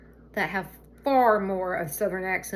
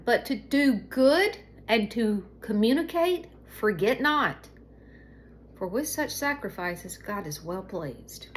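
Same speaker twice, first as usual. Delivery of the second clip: slow, emphatic second reading, "good" drawn out and stressed; rereading scripture; 2 semitones higher, slower than usual. Real, not acted. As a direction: read it again slowly, leaning hard on "good" and "not". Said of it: "let me read God's word one more time".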